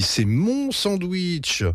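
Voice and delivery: high, slow whine; girl protecting her sandwich, whining; whiny yelp. A narrator's reading. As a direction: drag it out like a wronged child. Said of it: "glapit Betty".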